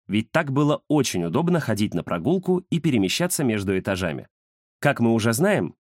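usual speaking voice

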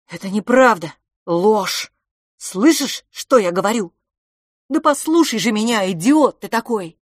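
loud, sharp insistence; cold, lashing. Acted. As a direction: whip each word at him. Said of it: "холодное и хлёсткое".

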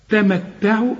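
تمتعوا with light first t, doubled second t. Shown as a demonstration. Teacher models open then doubled ta, doubled second ta. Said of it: "التاء الثانية مشددة".

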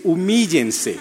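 humíllense tossed off lightly through a laugh; playful laughing command. Pretend. Preacher teasing the pictured girl, laughing humíllense. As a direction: tease the anxious girl with it.

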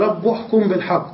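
"رب" said "rabbu"; damma ending. Shown as a demonstration. Teacher repeating the rare reading, u ending on rabb. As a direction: put a u vowel ending on "رب". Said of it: "وبنيت على الضم".

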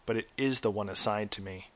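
dark, measured horror narration; story narration. A narrator's reading. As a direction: tell it like a campfire horror tale. Reads a horror tale.

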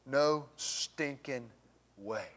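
put-on slow, stretched Southern good-old-boy voice; good old boy drawl. Preacher to congregation, slow Southern good-old-boy accent. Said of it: "good old boy for you".

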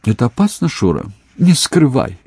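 high, anxious mother's questions; worried. A narrator's reading. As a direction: press him, worried for her son. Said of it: "заволновалась Софья Марковна". (встревоженная мать)

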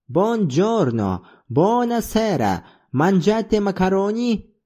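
a jaunty Italian greeting; Italian accent. Retold or imitated. Zorba plays Canavaro greeting in mock Italian. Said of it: "Итальянский".

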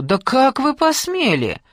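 pitched high, loud and slowed, outraged; furious shout. A narrator's reading. Aunt screaming at her niece's husband in outrage. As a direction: fling the question at him in fury.

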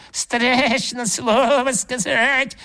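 high, slow bleating ram; ram's head echoing him, slow high bleat. A narrator's reading. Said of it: "заблеяла баранья голова".

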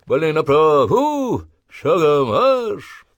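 high, loud, slow sergeant call; parade-ground challenge. Acted. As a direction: challenge the line to step out. Sergeant gives orders.

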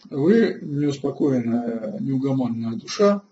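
normal talking voice

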